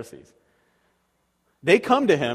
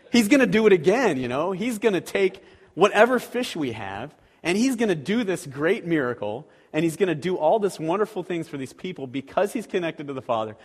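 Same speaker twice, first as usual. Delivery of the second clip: eager, raised hopeful voice; excited; 3 semitones higher than usual. Pretend. Disciples eagerly expecting Jesus's miracle, mildly excited. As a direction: bubble with anticipation. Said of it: "disciples would just be like".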